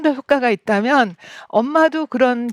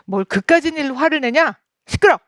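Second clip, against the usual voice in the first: scolding mother; 4 semitones higher than usual. Retold or imitated. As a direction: yell the child down to silence it. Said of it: "이렇게 야단을 치겠죠".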